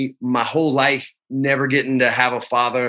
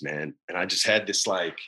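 real emotion catching, low and subdued; low, softened, fighting back feeling; choked up; 5 semitones lower, 3 dB quieter than usual. Real, not acted. Dad recalling milk and cookies with his daughter, choked up. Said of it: "I'm getting too choked up".

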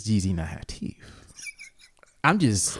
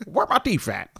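lightly voiced toothless granddad; hunting for his dentures, old man; 11 semitones higher than usual. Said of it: "like when your granddad".

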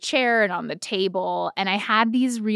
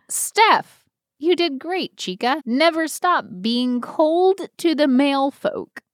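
reading in a voice; 6 semitones higher, slower than usual. Retold or imitated. Reading a signed message aloud.

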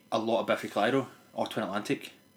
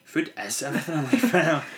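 laughing quote; 5 semitones higher, 4 dB louder than usual. Retold or imitated. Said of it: "And I'm like".

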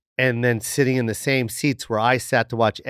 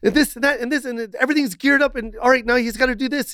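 exasperated telling off; 10 semitones higher than usual. Retold or imitated. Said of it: "I go".

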